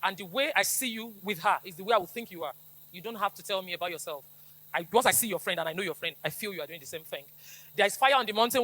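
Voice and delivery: usual speaking voice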